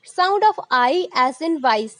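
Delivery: reads the title very slowly; slow heading read. Shown as a demonstration. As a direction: dictate it word by word. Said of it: "जब हम voice बोल रहे हैं". (धीरे-धीरे बोलना)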